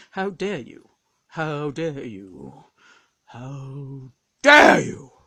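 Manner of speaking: measured, theatrical indignation building to a shout; Tony Randall doing Ted Winning screaming. Retold or imitated. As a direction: deliver it slowly, then burst out on the last DARE. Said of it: "do the impression of Ted Winning screaming".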